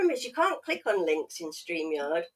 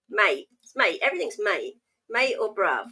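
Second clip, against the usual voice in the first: mock London slang; 4 dB louder than usual. Shown as a demonstration. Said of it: "don't use that one anymore".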